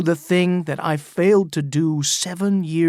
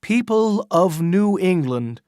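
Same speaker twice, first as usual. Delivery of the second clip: crying out to the crowd; 3 semitones higher than usual. Acted. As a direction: proclaim it to the whole crowd. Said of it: "he cried".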